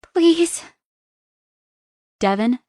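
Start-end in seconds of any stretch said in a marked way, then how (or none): 0.0-0.6 high pleading please; begging. Acted. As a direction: plead with him. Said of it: "I begged".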